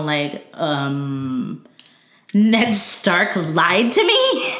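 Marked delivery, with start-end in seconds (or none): 2.3-4.5 slow stunned disbelief. Retold or imitated. Jon's shocked reaction acted.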